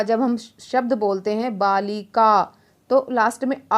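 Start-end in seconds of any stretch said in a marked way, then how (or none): 1.6-2.6 बालिका said slowly so the final आ is heard; slow demonstration. Shown as a demonstration. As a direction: explain slowly, then say बालिका clearly. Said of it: "आ की sound आ रही है". (धीरे बोलकर बालिका)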